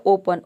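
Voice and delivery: ओपन with a full "oh" at the start. Shown as a demonstration. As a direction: say ओपन as oh-pun, opening on a long O. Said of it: "ओ को हम ओ pronounce करते हैं". (ओपन के शुरू में साफ़ "ओ" बोलें)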